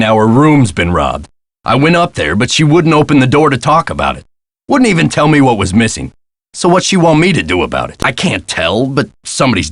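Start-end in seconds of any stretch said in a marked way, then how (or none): 1.6-8.0 frustrated, higher-pitched complaint; exasperated. Acted. Desk man complains about Hotchkiss to Nancy, exasperated. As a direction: vent about an impossible guest.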